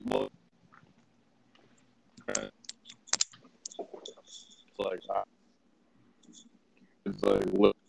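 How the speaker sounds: laggy, stretched-out speech; words dragging like a slowed recording; slow motion. Real, not acted. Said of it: "I don't know if you're talking in slow motion right now".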